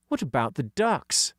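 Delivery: hint of a kid's voice; lightly voiced schoolboy George; lightly voiced boy. Dougie voice.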